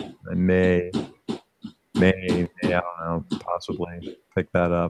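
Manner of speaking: slow, halting, hushed half-whisper under the breath. Admitting you might buy another motorcycle so he won't hear: half-whispering. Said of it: "I'm trying to whisper".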